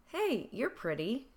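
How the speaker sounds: friendly, easy hey; light, pleasant catcall done kindly; kind compliment. Shown as a demonstration. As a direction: say it as a genuine nice compliment. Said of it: "Here's how it goes".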